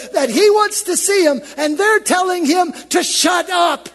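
high, loud, ringing sermon shout; full-force preaching. Acted. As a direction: preach it to the rafters.

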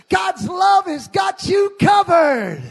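high, loud, slow joyful declaration; big smiling shout. Shown as a demonstration. Preacher telling the people to say it to two neighbours, joyful smiling shout. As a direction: beam and shout it. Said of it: "just smile real big and say".

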